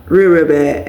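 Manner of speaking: usual speaking voice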